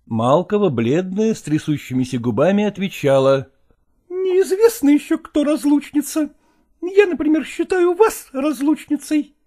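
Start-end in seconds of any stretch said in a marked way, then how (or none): 3.8-9.4 higher, trembling defiant reply; mistress's voice. Acted. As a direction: answer back with quivering lips. Mistress answers, pale.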